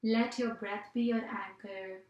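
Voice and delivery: measured meditation-teacher voice with long pauses; guided meditation. Acted. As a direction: guide listeners through breathing in unhurried, spaced phrases. Leads a breathing meditation.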